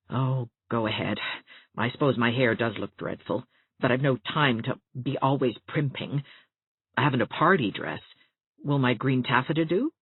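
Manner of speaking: a hint of a grumpy teacher; Catherine, scornful. Catherine voiced by reader.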